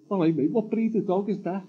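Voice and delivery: lightly voiced bloke, laughing with relief; a stranger's cheery question through laughter. Stranger asks about dog.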